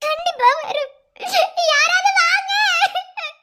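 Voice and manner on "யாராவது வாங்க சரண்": higher, raised calls for help; desperate calling out. Acted. Wife shouts for help over her fallen husband. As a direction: cry out to anyone who can hear.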